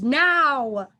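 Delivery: firm command. A narrator's reading. Aunt ordering Ruby to come now, firm. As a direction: cut her off firmly.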